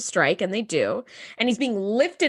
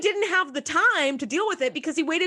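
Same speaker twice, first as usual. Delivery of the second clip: laughing, rising higher to a squeak; laughing rant; 4 semitones higher than usual. Real, not acted. Podcaster mocking Geordi's timing, laughing. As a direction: giggle through the complaint.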